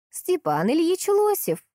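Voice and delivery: high, slow granny voice; a sprightly old granny says the name; бойкий старушечий голос; old woman's voice. A narrator's reading. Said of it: "ответила шустрая старушка".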